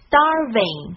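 "starving" with the r in the first syllable; reminder word. Shown as a demonstration. Teacher reminds learners not to drop the r. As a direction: keep the r in "starving". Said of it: "卷舌音不要忘记了".

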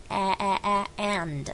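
"a" and "and" with a wide open ae, very slow; butterfly vowel. Shown as a demonstration. Teacher drills the butterfly vowel in "and". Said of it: "是蝴蝶音".

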